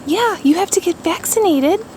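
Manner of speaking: high coaxing voice to a dog. Real, not acted. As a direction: sweet-talk the dog into it. Owner coaxing dog about vaccines.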